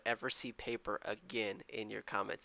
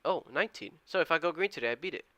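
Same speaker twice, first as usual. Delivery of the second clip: excited; 6 semitones higher, 4 dB louder, faster than usual. Real, not acted. Realises record win streak.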